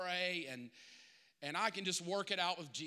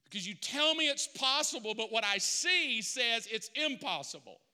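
preaching hard; 2 semitones higher, 3 dB louder than usual. Acted. Pastor preaching at full force.

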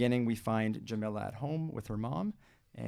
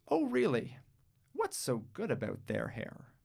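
gently questioning mother; 3 semitones higher than usual. Acted.

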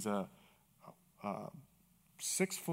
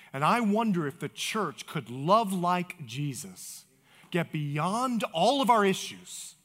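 impassioned preaching; slower than usual. Real, not acted. Pastor challenging the church to love, impassioned preaching. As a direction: drive it home slowly at full force. Preaches climax at full force.

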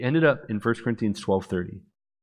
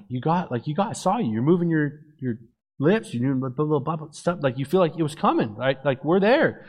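higher, pleading excitement; retold eager insistence; 4 semitones higher than usual. Young man to crying fiancée in the car, eager insistence. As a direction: insist in a rush of hopeful disbelief.

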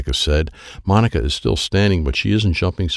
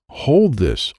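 higher, not yet shouted; insistent order; 5 semitones higher than usual. A narrator's reading. Child repeating the order to Wyatt, insistent. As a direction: repeat it firmly at raised pitch. Repeat before louder take.

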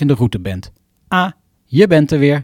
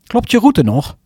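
navigation app voice; 6 semitones higher than usual. Acted. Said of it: "begint ze weer".

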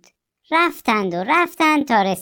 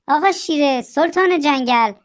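curious fox; 6 semitones higher than usual. Acted. Fox questions running lion.

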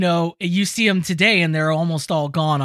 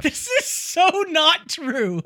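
incredulous; 7 semitones higher, slower than usual. Real, not acted. Reacting to absurd tweet.

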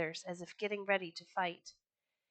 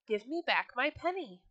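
crying out; 4 semitones higher than usual. Acted. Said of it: "he cried".

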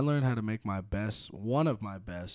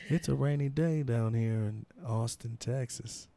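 mock radio voice; 2 semitones lower than usual. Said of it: "deep voice in these ears".

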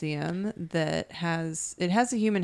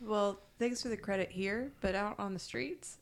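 talking around a vape hit; words slurred by vaping; vaping while talking; 2 semitones higher, 9 dB quieter than usual. Real, not acted. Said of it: "Sorry, I'm talking funny. I'm Juuling".

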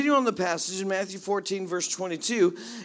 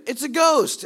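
loud, high panicked cry of fear; mock scared cry; 7 semitones higher, 6 dB louder than usual. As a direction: yell it like frightened sailors. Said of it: "they're scared".

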